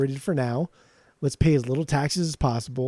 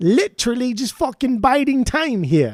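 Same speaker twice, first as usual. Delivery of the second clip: bad put-on English accent, loud and high; 9 semitones higher, 5 dB louder than usual. Speaker killing time while talking to the audience: bad english accent. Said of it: "that was also my my my English accent".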